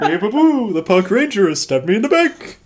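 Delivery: high, loud stabbed-bear wail; dying words. Pretend. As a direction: shout like a cartoon bear betrayed. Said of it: "make the sound of a dying bear".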